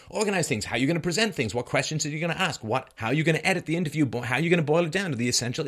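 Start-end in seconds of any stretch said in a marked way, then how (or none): none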